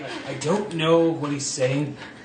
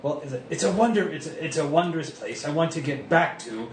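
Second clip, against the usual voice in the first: put-on German lizard accent. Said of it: "a German with a lizard accent".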